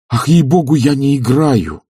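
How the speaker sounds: slow, earnest insistence; a man swearing he isn't toying with her. A narrator's reading. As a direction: plead it sincerely, slowly. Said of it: "сказал он убедительно".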